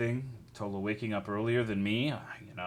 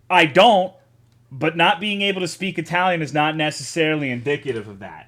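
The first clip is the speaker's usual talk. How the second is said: defensive, raised voice; 3 semitones higher, 7 dB louder than usual. Real, not acted. Defending himself to chat.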